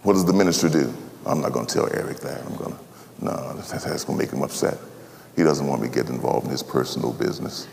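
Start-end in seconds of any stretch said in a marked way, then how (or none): 1.3-7.7 lower, much softer nervous self-talk; timid muttering. Retold or imitated. Fearful minister talking himself out of it, soft. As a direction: shrink away from it.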